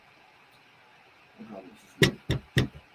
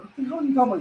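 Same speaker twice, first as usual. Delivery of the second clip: mock disbelief; 11 semitones higher, much faster than usual. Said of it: "So Jake's like".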